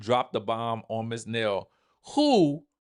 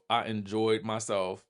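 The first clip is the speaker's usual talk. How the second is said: "I enjoyed myself" repeated much softer; soft echo; 3 semitones lower, 6 dB quieter than usual. Real, not acted. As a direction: let "I enjoyed myself" fall away softly. Repeats verdict twice.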